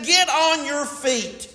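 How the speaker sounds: high, slow rallying call; slow, high exhortation to the congregation; preached command. Acted. Preacher voices God's rousing command.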